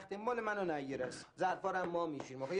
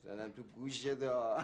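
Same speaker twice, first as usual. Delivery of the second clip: laughing mock threat; 6 semitones lower, slower than usual. Joking threat between friends.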